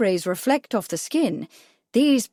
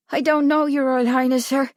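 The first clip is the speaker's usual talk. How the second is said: put-on high, level boy's voice; earnest boy; 5 semitones higher, 3 dB louder than usual. A narrator's reading. Boy answering the prince, high and earnest.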